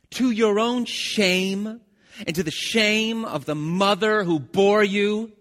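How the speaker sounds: raging King Saul accusing Jonathan; furious king. Acted. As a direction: bellow the accusation, drawing each word out. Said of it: "He's pretty mad".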